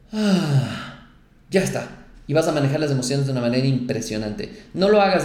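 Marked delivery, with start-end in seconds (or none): 0.1-2.0 P=A; relieved sigh. Shown as a demonstration. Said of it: "simplemente haces".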